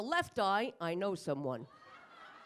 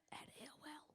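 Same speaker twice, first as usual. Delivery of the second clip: embarrassed whisper; 8 semitones higher, 19 dB quieter than usual. Acted. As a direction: whisper it sheepishly, laughing. Embarrassed confession of email.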